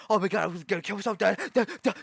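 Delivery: high, loud panicked voice mocking onlookers; mock freak-out. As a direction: ham up a panicking person yelling. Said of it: "so people aren't looking at me like".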